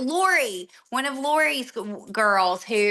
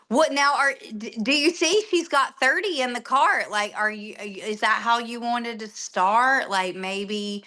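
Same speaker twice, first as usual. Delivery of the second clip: mock panicked partner; 2 semitones higher than usual.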